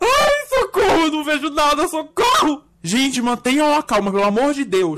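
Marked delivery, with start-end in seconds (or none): 0.0-2.6 panicked scream for help. Acted. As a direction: cry out in terror in the dark. Lights go out in elevator. (pedido de socorro em pânico)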